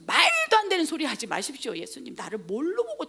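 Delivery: 발끈하며 항변하는 베드로; 첫머리를 높여 따지듯 연기; 흥분한 항변. Acted. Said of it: "흥분해갖고". (흥분해서 대들듯)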